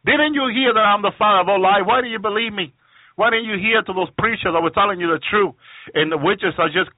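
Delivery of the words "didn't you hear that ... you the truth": lightly voiced devil, higher-pitched retort; Satan. Satan answering the pleading witches, lightly acted taunt. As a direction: throw it back mockingly, pitched up. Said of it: "He keeps telling them".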